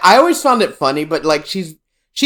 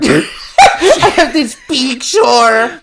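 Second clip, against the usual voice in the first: loud, high, drawn-out mock Mexican accent; stereotypical Hispanic; 5 semitones higher, 5 dB louder, much slower than usual. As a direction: mimic the Mexican accent back, even bigger. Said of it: "fucking Speedy Gonzalez ass".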